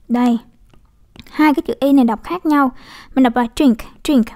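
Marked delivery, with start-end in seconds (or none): 3.5-4.3 "drink" with a short, quick i; short quick vowel. Shown as a demonstration. Teacher showing students the quick sound, short-vowel "drink". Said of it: "mình đọc nhanh".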